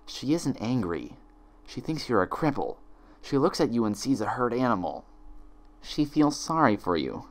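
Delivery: a hint of a hushed malicious twin; softly cruel twin. Twin whispering cruel insight.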